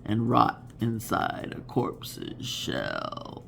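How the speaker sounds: slow, deep, spooky recitation; hammed-up horror narrator; Vincent Price voice. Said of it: "I can't do his voice".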